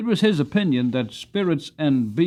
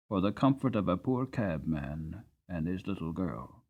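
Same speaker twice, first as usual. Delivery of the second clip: tender father; 3 semitones lower, 5 dB quieter than usual. Acted. Father speaking gently to daughter.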